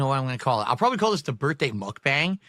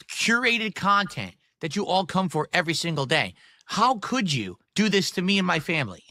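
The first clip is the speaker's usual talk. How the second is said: mock outrage; 4 semitones higher than usual. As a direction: scold chat with mock fury. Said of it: "I can't say it with a straight face".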